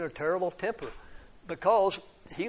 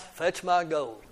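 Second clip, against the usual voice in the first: slow, mildly growled command; understated giant growl, drawn out; growled order; slower than usual. Acted. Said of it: "he growled".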